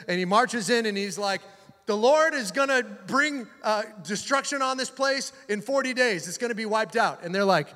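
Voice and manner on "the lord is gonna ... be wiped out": grudging, high-pitched proclamation; grudging Jonah. Retold or imitated. Reluctant prophet warning the city, grudging. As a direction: announce doom with a bad attitude. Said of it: "he's not doing it with a good attitude".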